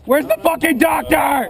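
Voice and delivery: angry shout. Acted. Calling for medic in firefight.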